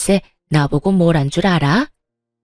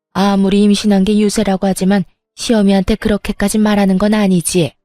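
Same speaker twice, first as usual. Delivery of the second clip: berating mother-in-law. Acted. Mother-in-law scolding her son and pregnant daughter-in-law, mildly angry. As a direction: lash out at both of them.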